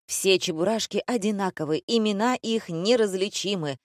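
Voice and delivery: mildly declaimed verse line; declaiming. A narrator's reading. Director remarking on look-alike girls, lightly declaiming. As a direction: recite it with slight mock pomp. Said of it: "продекламировал Дима".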